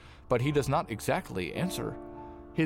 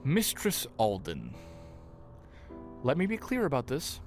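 stern warning. Acted. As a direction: draw the name out in stern reproof. Stern priest about to refuse her request.

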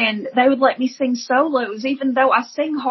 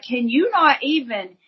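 higher, pleading cry to the heavens; crying out to God; 6 semitones higher than usual. Retold or imitated. Woman on the street crying out to God, high and pleading. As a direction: call out to God in desperation. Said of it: "I'm screaming at him".

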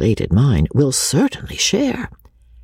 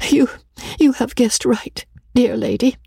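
higher, hesitant and sweet; sweet faltering voice; 10 semitones higher than usual. A narrator's reading. Rebecca confessing to the old lady, sweet and faltering. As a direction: falter shyly over the confession. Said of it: "sweet, faltering voice".

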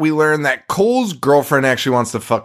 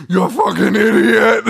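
higher-pitched yell out a car window; mock yell; 9 semitones higher, 4 dB louder than usual. Retelling kids harassing a local driver, mock yell. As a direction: holler it like a heckler in a moving car. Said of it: "hanging out the window being like".

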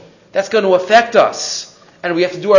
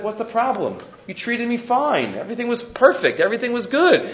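calm reassurance; 4 semitones higher, 5 dB quieter than usual. Retold or imitated. Rabbi calmly reassures the innkeeper.

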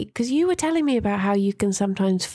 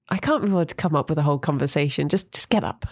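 dismissive; 6 semitones lower, faster than usual. Retold or imitated. Brain's dismissive quote, fast, lower.

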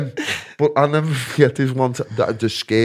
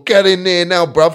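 mock southern English hard man, raised voice; loud, higher southern English impression; southern English accent; 6 semitones higher, 7 dB louder than usual. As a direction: order him about in a London-style accent. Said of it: "'cause he's from down south".

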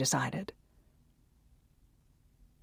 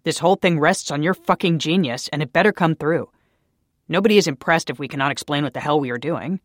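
angry tirade; 3 semitones higher, 8 dB louder than usual. A narrator's reading. Daniel berating Naomi, building to a furious shout. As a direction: tear into her, rising in fury.

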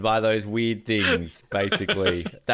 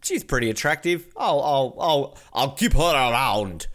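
slow, badly faked Slovetsian accent; 2 semitones higher than usual. Smitten dictator deciding to keep her, hammy fake Slovetsian accent. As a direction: put on a garbage Slovetsian accent. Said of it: "was that a good Slovetsian accent".

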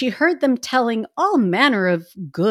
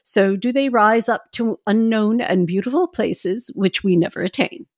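put-on old lady voice. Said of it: "You want me to do the old lady voice?".

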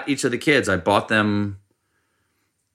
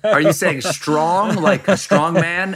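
puzzled asking; 8 semitones higher than usual. Retold or imitated. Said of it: "you're like".

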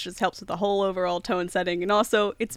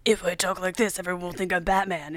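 gruff Batman voice. Retold or imitated. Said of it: "It's sort of just like".

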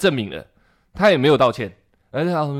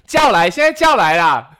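defiant demand; 6 semitones higher, 7 dB louder, slower than usual. Retold or imitated. Proxy's defiant demand, slow.

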